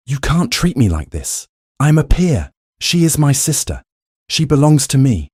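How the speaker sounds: high, loud, outraged; indignant protest. A narrator's reading. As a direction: claim her back in fury. Rupert struggling while thrown out.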